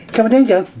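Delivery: high, lilting coax to a cat; coaxing a pet. Real, not acted. Presenter getting pussycat to jump down, coaxing. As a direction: gently urge the cat down in pet talk.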